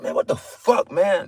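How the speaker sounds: frustrated half-whispered grumble; exasperated mutter. Retold or imitated. Preacher mimics himself muttering at annoying people, frustrated whisper. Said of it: "That, I'm, this is me".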